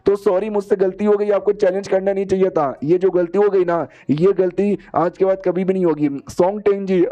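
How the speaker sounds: mock-frightened grovelling; panicky apology. Scared old man begs forgiveness.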